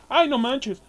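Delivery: loud, high-pitched alarm; startled exclamation. Real, not acted. Gamer suddenly swarmed by monsters, startled outcry. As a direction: cry out as the game catches you off guard.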